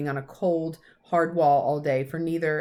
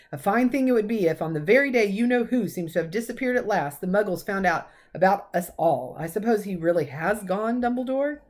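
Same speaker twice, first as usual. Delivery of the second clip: a touch louder, worried stern professor; McGonagall; 3 semitones higher, 4 dB louder than usual. Acted. Professor fretting to Dumbledore about the Muggles, mildly raised. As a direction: press him, lightly voiced old teacher.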